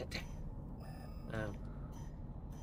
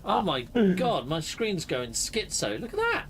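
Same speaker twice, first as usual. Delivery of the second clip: surprised; 3 semitones higher, slower than usual. Real, not acted. Screen glitching.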